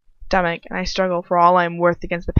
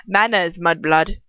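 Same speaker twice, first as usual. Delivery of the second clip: sneering rebuke; 4 dB louder, slower than usual. Acted. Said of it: "keep out the different accents".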